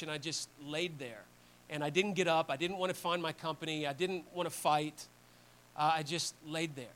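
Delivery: hushed admission of fear; quiet confession. Retold or imitated. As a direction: confess it softly and haltingly, voicing a soldier. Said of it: "He's confessing to Spears".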